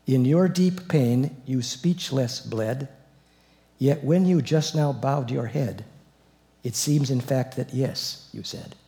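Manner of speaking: slow, measured reading of a sacred poem; solemn recitation. Acted. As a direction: read the aria text like a prayer. Reads Bach aria text slowly.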